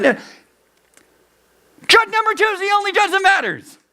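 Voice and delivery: high, held, cried-out declaration; forceful proclamation. Acted. Preacher answering the pleading judges, crying out. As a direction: cry it out high, drowning out the pleas.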